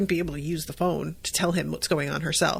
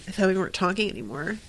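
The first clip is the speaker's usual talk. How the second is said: aloof; 5 dB quieter, much faster than usual. Retold or imitated. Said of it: "Amy is, like, all, like, aloof".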